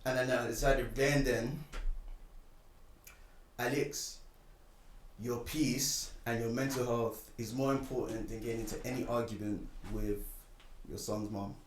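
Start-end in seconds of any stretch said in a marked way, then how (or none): 3.6-11.5 self-reassurance. Retold or imitated. Retold calming talk to himself.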